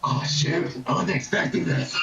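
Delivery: surprised whisper. Real, not acted. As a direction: breathe it under your breath. GM caught off guard.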